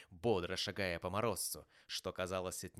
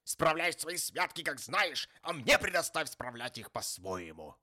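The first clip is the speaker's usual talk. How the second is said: loud, high, testy retort; irritated dismissal; 7 semitones higher, 7 dB louder than usual. A narrator's reading. Uncle telling nephew to leave him be, irritated. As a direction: shut the subject down firmly.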